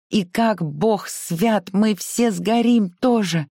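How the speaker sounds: high, frantic, panicky voice; being chased. Acted. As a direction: babble in terror, slowing at the end. Terrified maid after being chased.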